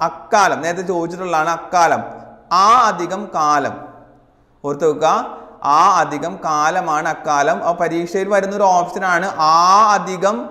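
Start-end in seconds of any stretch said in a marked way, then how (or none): 2.6-3.7 slow dictation. Shown as a demonstration. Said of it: "teacher dictates the split form". 5.8-7.6 slow dictation. Shown as a demonstration. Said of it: "teacher dictates the split form".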